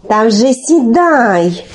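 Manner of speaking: slow, drawn-out urging. Acted. Olenka urges Telesyk onto the shovel, drawn-out and insistent. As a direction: stretch the command out.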